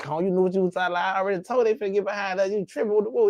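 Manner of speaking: voicing his friend. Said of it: "he like".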